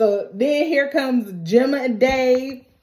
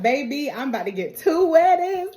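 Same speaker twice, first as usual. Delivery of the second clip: higher-pitched mock delight; excited; 4 semitones higher than usual. Tina celebrates two coming weddings, acted-out excitement. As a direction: gush like someone thrilled at double good news. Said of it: "Tina really excited 'cause she's like".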